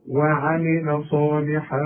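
وعمل صالحا slow, tanween hidden into ص with nasal hum; nasal hiding. Shown as a demonstration. Teacher demonstrating ikhfa to the student. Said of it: "هنخفي ونغن".

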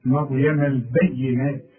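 البينات said with a full long alif; slow recitation. Shown as a demonstration. Teacher showing the full long vowel. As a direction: stretch the alif of البينات fully. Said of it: "تنطقها بالألف كاملة".

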